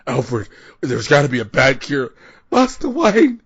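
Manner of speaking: high, loud hammy butler voice; hammed-up Michael Caine. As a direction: ham up a weepy old British butler. Michael Caine impression skit.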